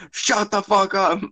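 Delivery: high, slowed-down mock retort; mock yell. Friend imitating the yelled comeback, mock yell. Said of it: "You were yelling at me".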